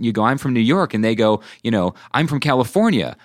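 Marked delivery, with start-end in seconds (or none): 0.2-0.9 higher, eager acted introduction; excited greeting. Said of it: "you're even further away and you hear an accent". 2.1-3.2 higher, delighted acted answer; reply as if finding an instant friend; excited recognition. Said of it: "you're even further away and you hear an accent".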